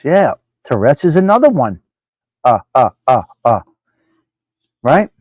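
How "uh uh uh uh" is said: tic imitation. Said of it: "That sounded like Dean do".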